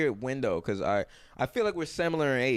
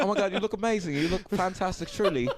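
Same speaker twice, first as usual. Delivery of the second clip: put-on light posh English accent, gushing; 6 semitones higher than usual. Retail worker flattering women in light posh English accent. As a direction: lay on English charm for shoppers. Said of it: "Oh, you went posh, too".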